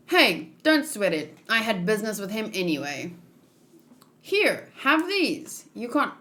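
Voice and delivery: lightly acted anime character voices, each figure a bit different; voiced manga characters. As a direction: read the panel dialogue as the characters, lightly voiced.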